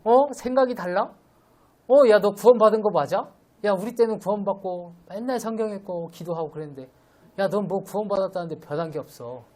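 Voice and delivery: hammed-up scolding of a grown child; scolding parent. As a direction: nag the child like an exasperated elder. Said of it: "막 이러는 거죠".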